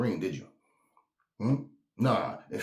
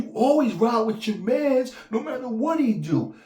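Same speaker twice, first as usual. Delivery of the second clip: mocking; 14 semitones higher, 7 dB louder than usual. Mocking loyal fans in a high, loud voice. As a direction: sneer at the street code.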